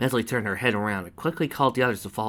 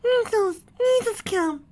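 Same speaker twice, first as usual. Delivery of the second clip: very high, loud joyful cry; happy exclamation; 5 dB louder, slower than usual. Acted. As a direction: call out in delight. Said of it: "exclaimed happily".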